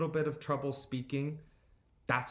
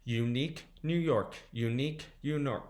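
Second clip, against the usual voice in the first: quicker tongue twister, stumbling; a little faster. Shown as a demonstration. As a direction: speed up until the words trip. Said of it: "Let's try going a little faster".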